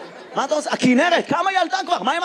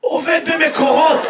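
slow, drawn-out hoarse answer; mock hoarse reply; hoarse man imitation. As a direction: imitate a hoarse worker calling out his job. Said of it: "ממה אתה צרוד".

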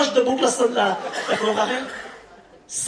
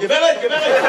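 raised, urgent attention-getting call; acted street call to a passer-by; 4 semitones higher, 3 dB louder than usual. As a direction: hail a stranger in the street. Calling out to a woman in the street.

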